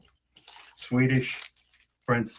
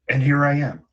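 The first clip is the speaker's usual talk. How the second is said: triumphant; 4 semitones higher, 6 dB louder than usual. Acted. Frog arrives at the castle.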